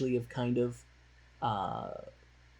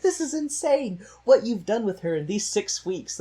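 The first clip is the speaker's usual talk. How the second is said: amazed; 8 semitones higher, 3 dB louder than usual. Retold or imitated. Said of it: "they're like".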